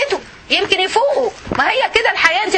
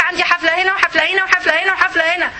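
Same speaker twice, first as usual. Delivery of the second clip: mock party-goer; 3 semitones higher, faster than usual. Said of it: "تقولك".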